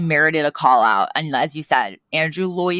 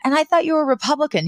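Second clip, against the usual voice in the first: imitating Fran; 10 semitones higher, faster than usual. Voicing Fran's surprised question.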